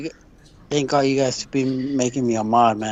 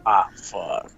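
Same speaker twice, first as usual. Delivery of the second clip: retold dismay; 6 semitones lower, 4 dB quieter than usual. Retold reaction to bad news.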